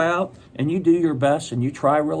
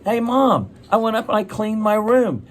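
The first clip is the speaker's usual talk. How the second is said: a hint of a proud child, pitched up; proud kid to mom; 6 semitones higher than usual. Child reports a cleaned room to mom, lightly voiced pride. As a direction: announce it to Mom in a higher voice.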